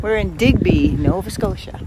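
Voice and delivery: loud reply over noise; calling out. Real, not acted. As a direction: shout back over the noise. Calling out in a noisy place.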